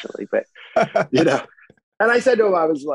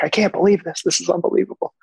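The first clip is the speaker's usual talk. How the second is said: higher-pitched mock shout over the band; retold yell over music; 9 semitones higher than usual. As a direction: call it out over the music, half-acted. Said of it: "he's kinda yelling at me over the music".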